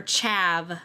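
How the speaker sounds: "Chav" with a flat a as in cat; short-a variant. Shown as a demonstration. Offering another option, "Chav" with short a. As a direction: say "Chav" to rhyme with have. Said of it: "I wouldn't think ah".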